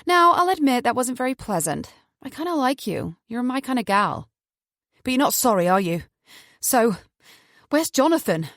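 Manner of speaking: a hint of a playful menacing woman; Hazel. Captor taunting her captive, lightly playful voice.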